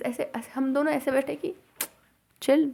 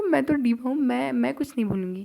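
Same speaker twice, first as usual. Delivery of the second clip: mock diva boast; 3 semitones higher than usual. Telling friend she forgets nothing, mock diva boast. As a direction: play the confident diva, chin up.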